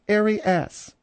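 Arias said air-ee-ASS; deliberate Arias, ending like the word ass; strict French pronunciation. Shown as a demonstration. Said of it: "the strict French is".

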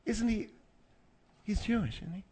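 hushed, furtive aside; whispering. Real, not acted. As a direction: slip it in under your breath, softly. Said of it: "Will you stop with the whispering".

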